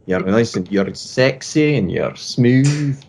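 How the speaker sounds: slow, suave mock-Scottish compliment; smooth Scottish. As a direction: lay on a silky Scottish charm, slowly. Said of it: "like, a smooth Scottish".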